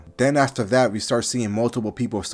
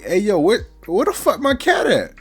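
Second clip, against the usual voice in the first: much higher, louder demand; furious high yell; 11 semitones higher, 5 dB louder than usual. Retold or imitated. Asta yelling at the lady for her cat, very high and loud. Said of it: "my girl Asta's like".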